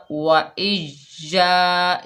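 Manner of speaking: slow, drawn-out chant of वा इज या, stretching the या; slow Quranic recitation. Shown as a demonstration. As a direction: chant वा इज या slowly, holding the long vowel. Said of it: "एक अलिफ की मिकदार खींच कर पढ़ेंगे".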